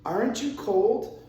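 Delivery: "Aren't you cold" pitched high, lifting on "cold"; negative question. Acted. Teacher in a cold room asks, assuming agreement, high questioning tune. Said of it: "I would ask a negative question".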